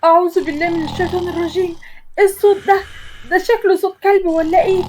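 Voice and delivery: woken with a fright; jolted from sleep, mildly panicked; startled awake. Acted. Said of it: "وقمت مفزوعة".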